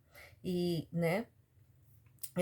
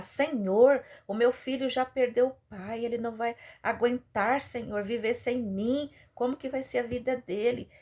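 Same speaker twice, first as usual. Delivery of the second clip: mildly raised, pleading retelling; imitated tearful plea; 4 semitones higher than usual. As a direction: plead with God, pitch lifted, without real sobs. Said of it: "ela começou a chorar". (súplica chorosa, levemente encenada)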